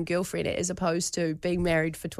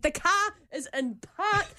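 high, exasperated retort, a mock version of being irate; 10 semitones higher than usual. Wife snapping back at husband on the phone, exasperated and high. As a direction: insist it's already in park, fed up. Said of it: "I'm just getting so irate and annoyed".

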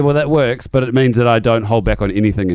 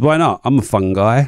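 lively punchline. Shown as a demonstration. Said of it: "Here it is".

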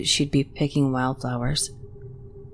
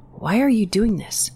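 outraged; 6 semitones higher than usual. A narrator's reading. Brother outraged at sister.

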